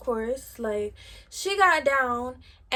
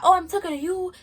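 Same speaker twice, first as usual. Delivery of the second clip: mocking taunt; 6 semitones higher, 5 dB louder than usual. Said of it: "She talking about".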